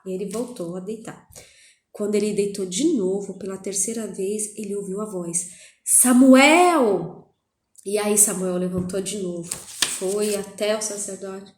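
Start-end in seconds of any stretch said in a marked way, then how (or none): 5.8-7.3 put-on a loud, drawn-out call of the boy's name; the voice of God calling in the night. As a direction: call Samuel from far away, loud and long. The voice calls a third time.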